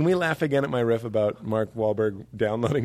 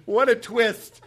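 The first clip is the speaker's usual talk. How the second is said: mock astonishment; 7 semitones higher, slower than usual. Mock awe at prank twist.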